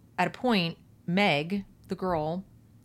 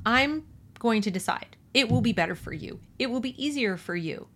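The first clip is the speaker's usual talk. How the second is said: imitated soothing tone, pitched higher; 5 semitones higher than usual. IT promises to decide for them, mock-soothing. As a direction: coax as the controlling voice, lightly imitated. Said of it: "With this soothing tone".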